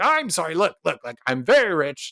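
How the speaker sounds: acted apology opening on a high note; placating. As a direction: hush an upset crowd with excuses. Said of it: "trying to quiet the people down".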